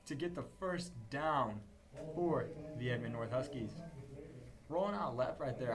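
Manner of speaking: rising energy, calling the play live; excited play-by-play. Real, not acted. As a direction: build up as the run breaks open.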